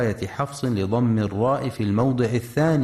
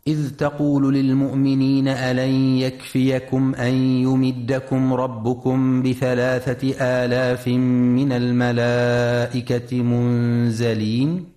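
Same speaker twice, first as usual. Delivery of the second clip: Quran recitation. Acted. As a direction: recite the verse with measured, chanted phrasing. (تلاوة مجودة بطيئة)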